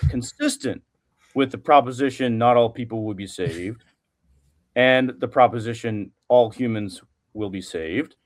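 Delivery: a touch of formal, emphatic philosopher posing a question; Plantinga. Acted. Student asks the professor in a lightly imitated philosopher's voice. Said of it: "in your best Plantinga voice".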